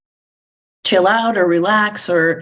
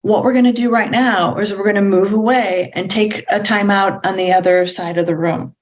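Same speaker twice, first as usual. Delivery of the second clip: steady, friendly, unthreatening; calm and prosodic. Shown as a demonstration. Parent moving child to time out, calm. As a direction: sweep the child along gently. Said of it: "what I want you to do is say".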